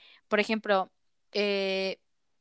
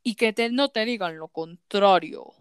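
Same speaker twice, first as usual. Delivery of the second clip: slow, lowered voice mocking a conservative radio ad; mock political ad; 3 semitones lower than usual. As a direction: ham up a preachy campaign spot, slow and heavy. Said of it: "escuché un comercial". (imitando con burla un anuncio político, lento y grave)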